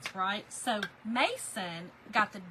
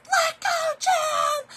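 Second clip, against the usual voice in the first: high, loud call across the water; shouted call; 9 dB louder, much slower than usual. Retold or imitated. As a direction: yell to him to let go of the rope. Yelling to husband while skiing.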